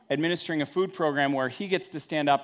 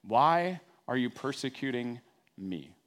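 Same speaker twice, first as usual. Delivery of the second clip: gentle question; 3 semitones lower than usual. Shown as a demonstration.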